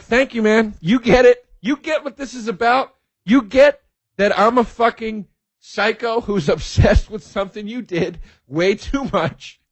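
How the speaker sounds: high-pitched, worked-up gratitude; gushing fan. Retold or imitated. Fan thanking Martin Short for getting it, excited gushing. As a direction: pour it out like an obsessed fan who has been understood. Acting himself gushing to his idol.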